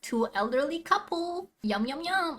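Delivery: lightly hammed-up gloating suspect, pitch climbing; mock gloating. Mimicking the suspect texting his wife, mock gloating. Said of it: "a message of you telling your wife".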